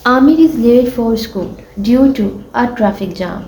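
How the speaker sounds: slow, careful textbook reading; teacher reading a sentence to pupils; slow reading aloud. Shown as a demonstration. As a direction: read each word slowly for the class.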